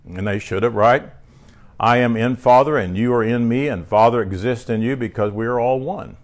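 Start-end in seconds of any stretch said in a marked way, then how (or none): 1.8-6.2 lightly raised, declaiming preacher read; reading scripture from the pulpit. Acted. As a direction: proclaim each verse to the church. Preacher reads Jesus' sayings.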